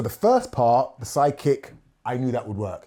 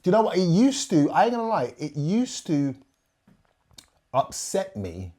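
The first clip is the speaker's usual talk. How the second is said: flustered laugh; 7 semitones higher than usual. Real, not acted. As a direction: laugh it off as you admit it. Host flustered laughing admission.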